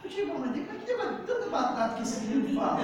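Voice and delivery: quick question breaking into laughter; laughing, puzzled retold question; amused disbelief. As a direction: ask it fast, laughing in mock bewilderment. Amused retelling of his own reaction.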